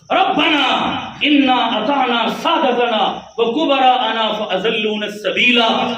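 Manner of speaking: slow chanted Arabic recitation; slow Arabic Quran chant; Quranic recitation. Acted. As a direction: intone the verse slowly.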